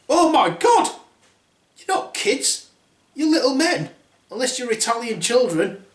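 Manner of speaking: high shocked princess voice; hammed-up high girly gasp; startled Snow White. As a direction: shriek in high surprise on waking.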